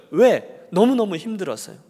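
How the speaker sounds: ordinary talk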